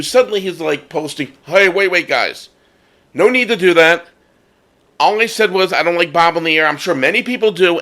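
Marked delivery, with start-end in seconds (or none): 1.5-7.8 raised, hurried pleading; flustered backpedal. Retold or imitated. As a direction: panicky walking it back. Poster backpedaling in panic.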